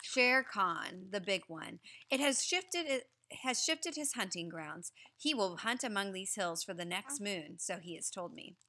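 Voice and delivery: put-on reading a story aloud to children; lively read-aloud to a class; story narration. A narrator's reading. Teacher reading the story aloud to the class.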